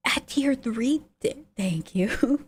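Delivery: awed whisper, stumbling; stunned whispered thank-you. Real, not acted. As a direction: whisper it in disbelief. Thanking a subscriber on stream.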